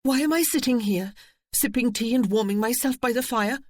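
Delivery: spring up crying out to go; urgent cry. A narrator's reading. Eve crying out that she must fetch the children. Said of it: "she cried".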